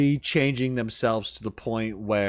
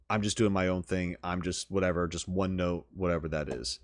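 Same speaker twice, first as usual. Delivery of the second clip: lightly voiced one-note character, lower and softer; mock monotone; 3 semitones lower, 5 dB quieter than usual. Voicing a very monotone game character, monotone. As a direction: imitate an indifferent loner on one note. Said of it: "he's just a very monotone character".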